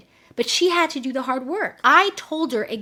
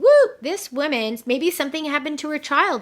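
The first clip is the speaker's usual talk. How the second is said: higher-pitched mock alarm; retold worry; 4 semitones higher, 5 dB louder than usual. Coach fears for the client's child, retold worry. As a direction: imitate a jolt of worried thought. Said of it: "I'm super worried 'cause I'm thinking".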